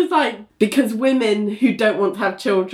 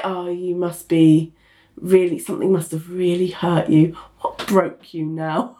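mock pity; 3 semitones lower than usual. Mocking those who assume something hurt her, mock pity. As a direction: pretend to be patronisingly concerned.

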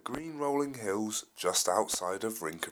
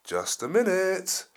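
sleepy; 9 semitones higher, 8 dB louder than usual. Acted. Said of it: "said sleepily".

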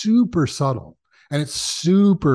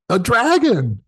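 deadpan reveal; 10 semitones higher, 5 dB louder, slower than usual. Retold or imitated. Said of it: "And he goes".

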